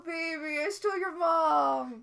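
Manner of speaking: loud, high mocking baby talk; mock her like a crybaby. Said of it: "he does mock her".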